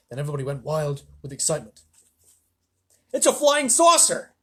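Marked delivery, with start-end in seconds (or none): 3.1-4.3 high, loud, slow crowd yell; excited shout. Acted. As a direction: shout it up into the sky. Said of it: "they shouted".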